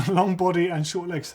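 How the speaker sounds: chuckling while reading aloud; kind gentle laugh. Real, not acted. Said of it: "I'm not laughing at you".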